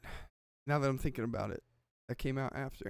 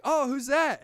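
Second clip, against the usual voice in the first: high, lightly acted curiosity; mock curiosity; 8 semitones higher than usual. Retelling a cameraman spotting a star, mock curiosity. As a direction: lift the pitch as if just noticing someone. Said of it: "the cameraman's like".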